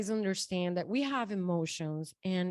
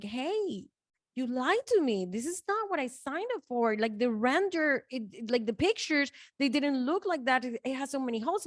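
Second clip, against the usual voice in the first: retold angry complaint; 4 semitones higher than usual. Angry phone call to closet seller.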